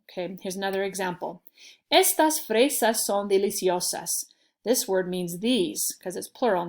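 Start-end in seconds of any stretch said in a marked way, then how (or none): 1.9-4.3 EStas, punched on the E; stress on first syllable. Shown as a demonstration. Teacher gives an example sentence, stressing the E of estas. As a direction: open with a strong E in estas. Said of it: "the E gets the punch".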